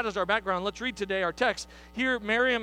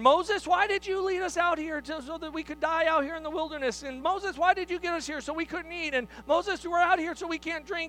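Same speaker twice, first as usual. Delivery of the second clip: griping crowd; 6 semitones higher than usual. Retold or imitated. People griping at Moses.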